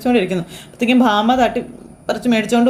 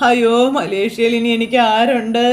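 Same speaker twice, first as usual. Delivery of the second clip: crying; slower than usual. Acted. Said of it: "ശ്രുതി കരയുന്ന".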